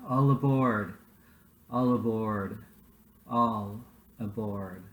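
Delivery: a mild "All aboard" call, fading with each repeat; conductor's call, understated. A narrator's reading. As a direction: call it out gently, slowing on the last one. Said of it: "she arrives calling out".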